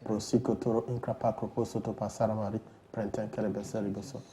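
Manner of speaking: evenly intoned stream of prayer syllables; praying in tongues. Real, not acted. Pastor praying over a London caller, praying in tongues.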